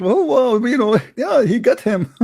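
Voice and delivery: high-pitched gushing imitation of fans; mock excitement. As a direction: imitate excited supporters, laughing through it. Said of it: "they are so excited".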